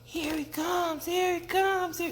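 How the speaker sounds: very high, tiny squeaky voice; squeaked little alarm call; little frog peep. A narrator's reading. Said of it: "the little frogs peeped".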